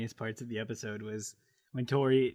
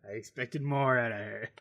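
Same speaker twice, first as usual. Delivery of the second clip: put-on Boston accent. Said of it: "disappointed father in a T V sitcom".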